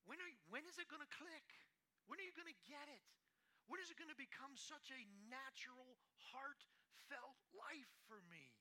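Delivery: high, loud pleading rebuke; God pleading with his people, high and loud. Acted. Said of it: "God is saying to you and I".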